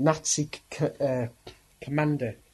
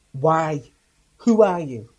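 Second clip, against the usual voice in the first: shouted demand; 3 semitones higher, 10 dB louder, slower than usual. Retold or imitated. Commander challenges priest.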